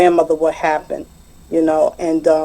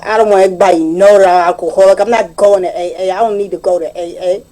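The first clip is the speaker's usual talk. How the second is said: quick, mildly raised retelling of an indignant outburst; retold angry yelling; 4 dB louder than usual. Husband refusing his wife's plea to attend AA, mildly mock-yelled. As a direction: imitate a defensive man's yell, only partly raised. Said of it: "he yelled at her and said".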